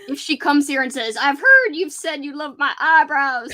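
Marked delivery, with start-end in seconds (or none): 1.2-3.5 slow, louder mock witch; witchy voice. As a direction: draw it out like a sinister witch. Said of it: "Now you're making her sound like a witch".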